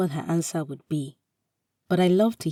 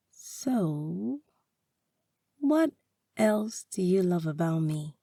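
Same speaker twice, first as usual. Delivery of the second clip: teasing; 2 semitones higher, slower than usual. Acted. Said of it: "she asks teasingly".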